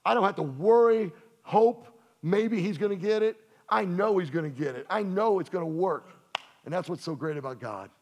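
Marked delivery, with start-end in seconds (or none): 0.0-6.1 confident declaration. Retold or imitated. David voicing confidence in his God, loud and assured. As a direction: declare it with full trust. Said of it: "And David says".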